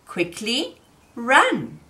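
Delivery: quickly run, said slowly and deliberately; slow, drawn out. Shown as a demonstration. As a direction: stretch out quickly run, word by word. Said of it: "we could say".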